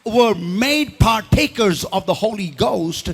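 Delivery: slow, measured Bible reading; solemn, spaced-out recitation; scripture reading. Real, not acted. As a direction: read the verse out deliberately, word by word. Reads scripture aloud.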